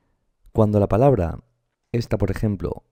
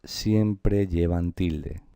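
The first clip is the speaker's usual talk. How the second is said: siempre, siempre stretched out slowly and softly; emphatic siempre; 2 semitones lower, 3 dB quieter, much slower than usual. Shown as a demonstration. Teacher to students, slowly stressing siempre. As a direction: lean on each siempre to drive the rule home. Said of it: "Tanto las esdrújulas como las sobreesdrújulas".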